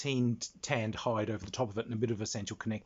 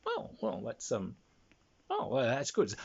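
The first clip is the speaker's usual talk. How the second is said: retold own reply. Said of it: "I said".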